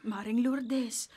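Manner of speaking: slow, breathy whisper of her name. Acted. Friend whispers at the grieving mother's door. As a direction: whisper gently to rouse her.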